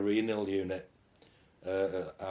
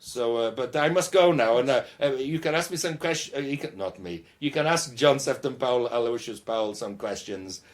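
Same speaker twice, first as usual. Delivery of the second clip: hammed-up German accent butting into the interview; 3 semitones higher than usual. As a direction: play Helmut, a jolly Bavarian bandleader, with a German accent. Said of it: "Yeah, Helmut gets in the way".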